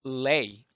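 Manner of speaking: 플레이 split into a breath P and "lay"; voiceless P plus lay. Shown as a demonstration. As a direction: puff the P, pause, then lay in 플레이. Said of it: "이거 소리 없습니다".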